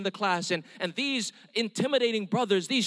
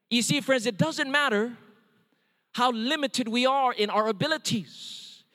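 preaching appeal. Acted. Closing appeal of sermon.

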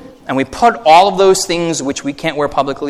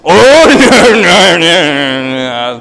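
laughing refusal; 3 semitones higher, 6 dB louder, much slower than usual. Retold or imitated. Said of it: "dad refusing in retold story".

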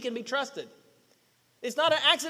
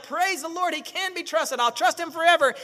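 higher-pitched grateful believer, lightly acted; mock rejoicing; 4 semitones higher than usual. Preacher voices the people after the miracle, lightly rejoicing. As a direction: play a briefly elated believer.

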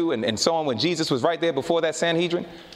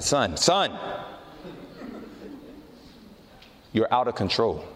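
low, measured fatherly reproof; gentle correction with long, weighty pauses; voice of God; 6 semitones lower, 4 dB quieter, slower than usual. Retold or imitated. Spirit of God correcting a hot-headed son, low reproof. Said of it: "like the Spirit of God said".

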